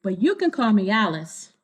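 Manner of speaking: clear, lively storybook reading; reading to children. A narrator's reading. Reader telling kids the story, bright storybook narration. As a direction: read it to a room of kids. Reading picture book aloud.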